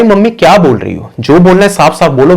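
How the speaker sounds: lightly acted demand to speak plainly; exasperated daughter. Daughter exasperated at mother on phone.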